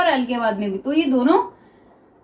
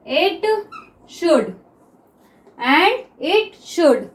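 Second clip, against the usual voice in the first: and it should joined together, said very slowly; teacher modelling linked words; slow blended demo; 2 semitones higher, much slower than usual. Shown as a demonstration. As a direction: link the three words slowly. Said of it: "हम तीनों एक साथ बनाएंगे".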